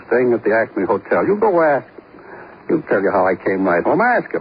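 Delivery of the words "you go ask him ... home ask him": defiant challenge. Acted. Suspect daring the detective to ask his friend, defiant. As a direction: pitch jumps up on ask.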